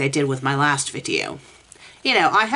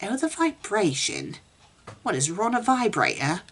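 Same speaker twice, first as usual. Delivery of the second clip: mocking disbelief; 4 semitones higher, 4 dB quieter than usual. Real, not acted. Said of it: "repeats quote mockingly".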